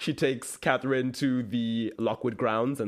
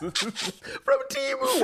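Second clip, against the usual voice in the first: mocking drawl; much slower than usual. Real, not acted. Mocking cheap knockoff.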